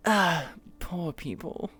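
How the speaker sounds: drawled, slow snooty sigh; posh warm-up phrase. Shown as a demonstration. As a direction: sniff at the poor like a posh lady. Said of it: "I said the phrase".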